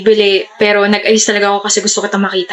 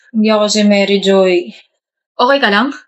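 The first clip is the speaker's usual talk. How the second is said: hammed-up wailing ghost, a bit lower; fake ghost voice; 3 semitones lower than usual.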